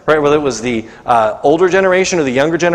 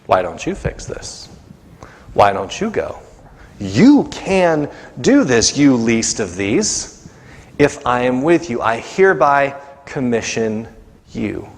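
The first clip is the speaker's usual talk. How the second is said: lower, slow commanding God voice; 4 semitones lower, slower than usual. Acted. God answering the complaining believer, low calm command. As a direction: speak as God handing back the task. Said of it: "And God says".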